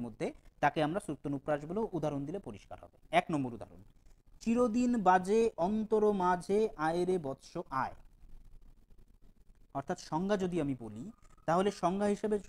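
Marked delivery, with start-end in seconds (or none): 4.4-8.0 slow, measured verse reading; slow poetic recitation for students; poem recitation. Shown as a demonstration. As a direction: recite the line slowly, savouring each word.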